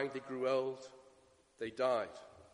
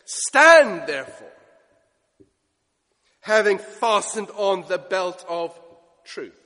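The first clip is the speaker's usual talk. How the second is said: louder, slow and proclaiming; ringing command; 7 dB louder, slower than usual. Acted. Paul exhorting the Ephesians, slow ringing command. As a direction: call it out like a rallying order.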